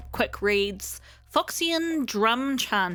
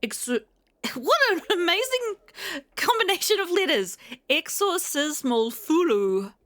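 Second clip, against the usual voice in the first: laughing; 9 semitones higher, 4 dB louder than usual. Real, not acted. Amused by a strange item name.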